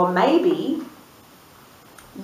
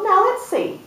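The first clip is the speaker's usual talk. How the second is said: lightly voiced sheep, slow and pondering; sheep thinking aloud; slower than usual. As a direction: mull it over slowly as the sheep. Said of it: "and she thought".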